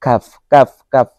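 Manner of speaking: কাফ said with a light, ordinary k; plain kaf. Shown as a demonstration. Teacher shows the small kaf, said plainly. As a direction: say কাফ simply, no heavy throat sound. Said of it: "খালি স্বাভাবিকভাবে বললেই হয়".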